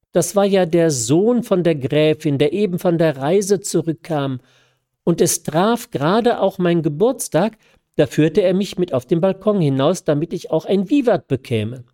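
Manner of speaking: put-on light bright young woman's lilt; lightly voiced young woman. Young woman laughing off his mistake, lightly voiced.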